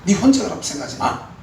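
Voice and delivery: high, loud firm correction; God answering the lonely prophet, high and loud; the Lord's firm answer. Pretend. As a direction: nail it down as God. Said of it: "이렇게 주님이 못을 박는 겁니다".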